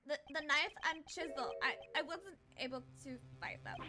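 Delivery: stammering start, rising to a pleading protest; distressed young prosecutor. Acted. Sebastian admitting failed search to judge, distressed pleading. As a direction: plead that you really tried.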